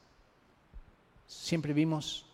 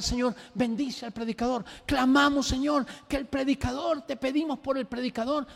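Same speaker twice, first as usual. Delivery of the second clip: pleading prayer, raised in pitch; urgent prayer; 6 semitones higher than usual. Retold or imitated. Small group praying for the coming preacher, urgent plea. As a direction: pray urgently, crying out for the preacher. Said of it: "empezamos a orar".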